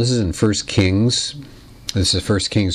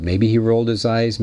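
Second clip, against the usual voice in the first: ordinary delivery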